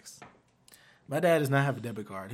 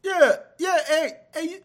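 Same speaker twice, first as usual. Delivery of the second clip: imitating dad; 9 dB louder than usual. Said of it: "Call him back".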